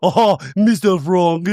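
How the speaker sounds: loud, high, drawn-out comic planner voice; slow, hammed-up movie impression; Martin Short character. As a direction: ham it up as an eccentric wedding planner. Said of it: "the Martin Short character from Father of the Bride".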